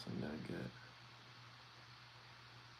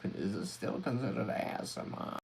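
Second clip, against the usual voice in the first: snake oil salesman; 5 dB louder than usual. Pretend. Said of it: "this snake oil salad voice might be a bit extreme".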